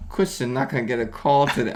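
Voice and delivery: put-on babyish sulky voice; baby talk. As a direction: pout it out like a small child. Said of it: "Why are you talking like a baby".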